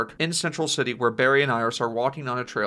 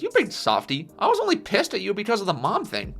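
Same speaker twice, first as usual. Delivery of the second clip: lightly voiced Iris, higher pitch; lächelnd; 7 semitones higher than usual. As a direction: tease him fondly in a higher voice. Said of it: "Iris smiles and says".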